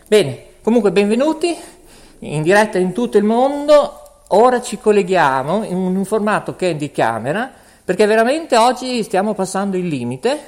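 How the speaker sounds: breathless, panting between phrases; out of breath from rushing around. Real, not acted. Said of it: "scusate del fiatone".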